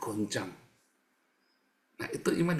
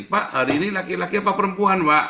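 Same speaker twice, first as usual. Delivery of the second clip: tag; 7 semitones higher, 7 dB louder than usual. Acted. Bertanya bingung ke Pak Utomo.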